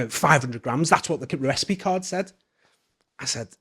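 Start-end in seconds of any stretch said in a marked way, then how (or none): 0.1-2.3 a mild retold snap, a bit louder; snapped reply. Chef snapping back at the manager, mildly imitated. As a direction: bite back defensively. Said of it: "he really snapped at me".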